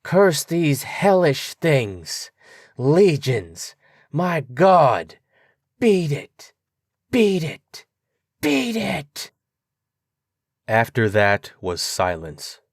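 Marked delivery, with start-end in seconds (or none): 0.0-9.3 mounting horror, each beat it higher; slow desperate cry rising to a scream; rising to a shriek. A narrator's reading. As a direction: cry building to a high, terrified shriek. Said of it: "a cry that gradually rose to a shriek".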